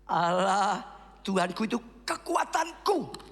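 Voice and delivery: said slowly and deliberately, word by word; slow congregational recitation. Shown as a demonstration. Pastor has the congregation repeat the verse, slow and deliberate.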